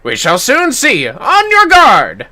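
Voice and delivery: loud, high, slow challenge; battle challenge. Acted. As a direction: throw down the gauntlet. Challenge before duel.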